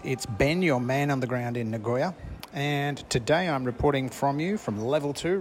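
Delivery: a roving reporter's on-the-ground update; bright stadium report to the listeners; field reporter. Acted.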